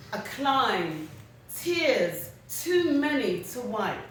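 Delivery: slow, measured poem reading with weighted pauses; poem recitation. Acted. Writer reading a poem on hope to listeners, slow recitation. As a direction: let each phrase lift, fall and stand alone. Reads own poem aloud.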